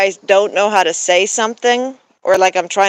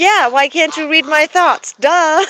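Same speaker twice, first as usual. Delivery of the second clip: mock sassy; 7 semitones higher, 3 dB louder than usual. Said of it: "And I'm like".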